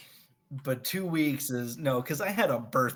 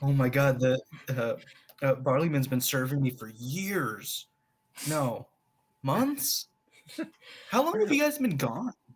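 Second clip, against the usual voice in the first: anxious, paranoid nervous ramble, rising, "years" drawn out. Voicing a character asked by the bartender about ale: nervous. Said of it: "he's really nervous about it".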